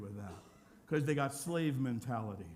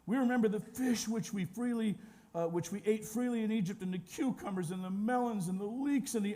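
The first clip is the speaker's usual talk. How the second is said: higher-pitched whining recital; mock tearful complaint; 6 semitones higher than usual. Israelites craving meat in the desert, mildly whiny complaint. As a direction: plead with a touch of exaggerated misery. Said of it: "also wept again and said".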